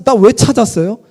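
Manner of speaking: lightly voiced cheeky schoolboy; boy Jesus brushing off his parents, lightly voiced. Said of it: "소년 예수가".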